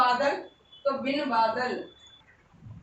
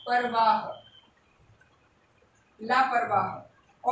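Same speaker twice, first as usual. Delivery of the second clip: slow dictation; 3 semitones lower, much slower than usual. Shown as a demonstration. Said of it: "teacher dictating word".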